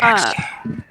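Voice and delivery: shouted suggestion. Real, not acted. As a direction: shout the tactic across the table.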